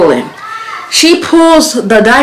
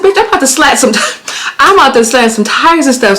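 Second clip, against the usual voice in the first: going off; 5 semitones higher than usual. Retold or imitated. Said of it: "I'm just going off".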